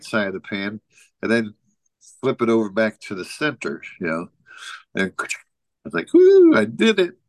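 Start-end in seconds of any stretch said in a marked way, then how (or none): 6.1-7.2 high, loud burst of triumph; excited woo. Retold or imitated. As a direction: cheer it like you just pulled it off.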